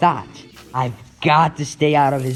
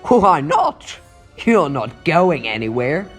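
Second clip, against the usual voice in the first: put-on confidence. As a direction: bluff confidence at the villain. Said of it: "I'm trying to sound confident to him".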